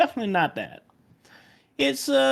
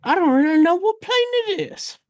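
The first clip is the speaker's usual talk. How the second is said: put-on old man voice. GM plays old man NPC.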